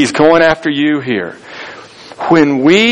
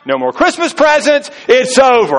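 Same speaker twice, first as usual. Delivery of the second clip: mock fed-up cutoff; 8 semitones higher than usual. Mock cutting off seventh offender.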